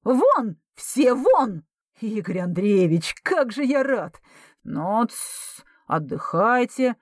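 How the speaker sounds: shrill camp pantomime dame; squealing falsetto. Acted. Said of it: "вдруг заверещал фальцетом". (визгливый фальцет)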